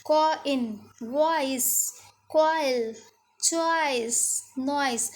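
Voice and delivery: कॉइन and चॉइस slow with oi glide; model words. Shown as a demonstration. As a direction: list the oi words clearly. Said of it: "ओ अ ई एक साथ निकल रहे हैं".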